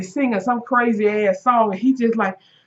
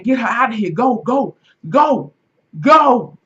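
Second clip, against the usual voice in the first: urgent; 4 dB louder than usual. Retold or imitated. Urging girls to flee.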